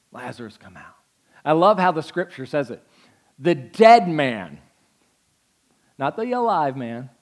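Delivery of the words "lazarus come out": lower, much softer; hushed call. Acted. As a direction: say it quietly with awe. Replayed call, now hushed.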